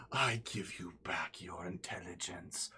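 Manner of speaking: a hint of a grand spirit; spirit bestowing a gift. Spirit grants the boon.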